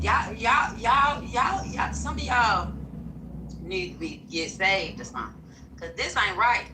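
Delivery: a hint of a scolding church lady; lightly voiced old woman calling out. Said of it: "put my old lady voice on for this".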